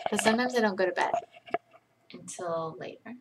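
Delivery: usual speaking voice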